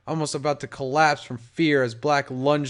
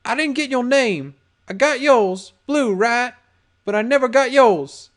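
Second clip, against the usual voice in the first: nervous; 9 semitones higher, 6 dB louder than usual. A narrator's reading. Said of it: "started talking nervously".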